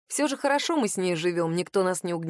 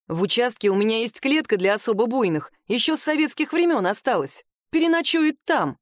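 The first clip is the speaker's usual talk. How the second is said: stern raised voice; 3 semitones higher, 4 dB louder than usual. Acted. Policeman threatens old woman.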